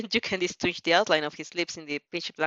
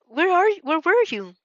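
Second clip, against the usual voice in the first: eager question; 10 semitones higher, 5 dB louder than usual. A narrator's reading. Girl rushing up to friend.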